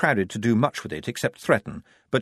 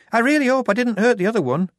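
moaning; 13 semitones higher, 5 dB louder, faster than usual. A narrator's reading. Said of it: "moaned Shufti".

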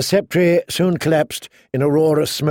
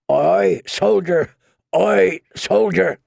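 put-on shouted-out call in a Moorish accent, only mildly raised; thick Moorish accent; 5 semitones higher, slower than usual. A narrator's reading. Captured crossbowman keeps calling to soldiers, thick Moorish accent. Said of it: "in a thick Moorish accent".

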